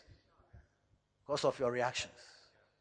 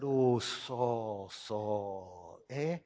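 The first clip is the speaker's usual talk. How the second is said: low, soft sorrowful call; a touch of grieving Samuel; Samuel's lament; 9 semitones lower, 5 dB quieter, much slower than usual. Acted. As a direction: sigh out his name in sorrow. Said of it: "Samuel said".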